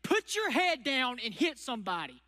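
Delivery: football coach. Retold or imitated. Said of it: "And the football coach says".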